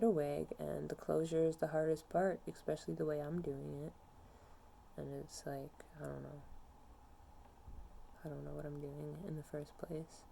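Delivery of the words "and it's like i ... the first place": much softer, words trailing off; quiet, defeated. Real, not acted. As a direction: sink into it, barely audible. Quietly admitting being lost.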